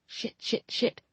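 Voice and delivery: whispered curses under the breath; panicked whisper. A narrator's reading. Narrator panicking silently at being caught out, whispered. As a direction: hiss it to yourself in panic.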